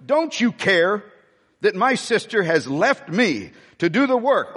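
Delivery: frustrated complaint with disdain; disdainful. Retold or imitated. Martha complaining to Jesus, mildly disdainful and frustrated. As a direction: let her frustration show, complaining. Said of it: "can't you hear the disdain?".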